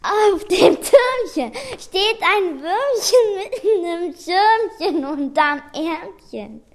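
tearful, crying voice; sad. Shown as a demonstration. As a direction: say it like you're about to cry. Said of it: "Mal traurig".

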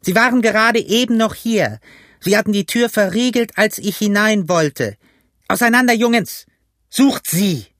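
high, agitated yelling; high-pitched commanding outcry; urgent shouted orders. A narrator's reading. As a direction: drive the men to hunt. Blind leader urges men to search.

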